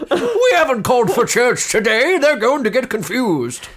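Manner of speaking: mock panicked monk. Player imitates panicked monk.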